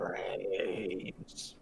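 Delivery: whispered zombie moan; pull string toy. Acted. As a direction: breathe out a raspy zombie word. Zombie doll voice.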